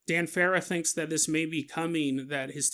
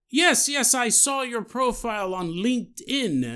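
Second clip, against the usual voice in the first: put-on French accent; 6 semitones higher, 3 dB louder than usual. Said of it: "You're gonna do this stupid accent".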